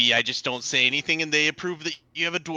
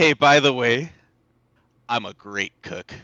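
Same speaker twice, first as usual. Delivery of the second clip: loud stage whisper. Player's character turning around, calling back to the others: loud whisper. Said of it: "I just want to loudly whisper at them".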